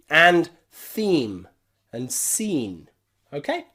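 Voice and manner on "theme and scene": "theme" and "scene", each with a long ee; long E pronunciation. Shown as a demonstration. Teacher giving words to practise, clear long E. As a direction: model "theme", then "scene", with clear ee vowels. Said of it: "why we pronounce these E".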